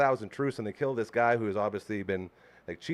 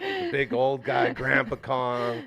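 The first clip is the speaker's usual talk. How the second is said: put-on slow old man voice; much slower than usual. Naming characters, slow voice.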